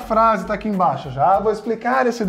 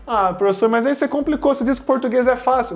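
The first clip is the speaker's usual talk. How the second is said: complaining student; 3 semitones higher, faster than usual. Acted. Student protests that it got complicated, lightly acted complaint. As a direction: play a pupil objecting to the teacher.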